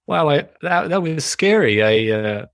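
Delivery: lightly voiced benevolent squirrel puppet; gentle non-judgmental wondering with a hint of New York-Boston accent; lightly put-on kindly meditation-teacher voice. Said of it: "I think Squirrel would be like".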